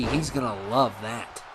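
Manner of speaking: dry, understated sarcasm; sarcastic. Real, not acted. Commentator on Mobster X's forced team-up, sarcastic. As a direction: say it with quiet irony, as if sincere. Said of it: "And I was being sarcastic".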